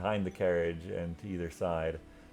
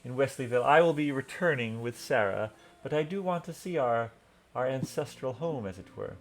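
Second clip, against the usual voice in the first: louder, higher proud nobleman; lightly voiced hearty lord; 6 semitones higher, 6 dB louder than usual. Sir Galdinger praises the ancestral keep, proud and hearty. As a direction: beam about the family home.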